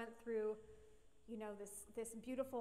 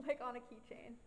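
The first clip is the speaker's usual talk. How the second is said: whispering. Real, not acted. Whispered laughing aside.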